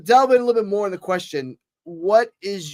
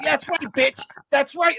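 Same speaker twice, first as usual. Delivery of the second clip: much higher, smug gloating; gloating taunt; 9 semitones higher than usual. Retold or imitated. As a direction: rub the win in his face. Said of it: "I'm like".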